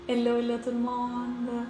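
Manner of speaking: normal talking voice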